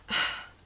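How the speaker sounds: mock exasperated sigh; annoyed sigh. Annoyed dad at the camera, mock exasperated sigh. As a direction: huff out a put-on annoyed sigh. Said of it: "a bit annoyed".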